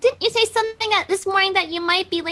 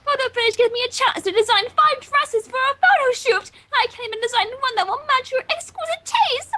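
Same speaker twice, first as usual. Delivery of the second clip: hammed-up Rarity; 6 semitones higher than usual. Voicing Rarity's dramatic lament.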